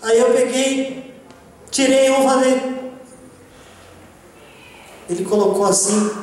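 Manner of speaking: usual speaking voice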